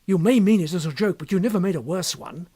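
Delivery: high, loud, offended protest; indignant anger. Acted. Kennedy angrily rebuking Berger for the question. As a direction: let the outrage build. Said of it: "glared angrily at his impassive companion".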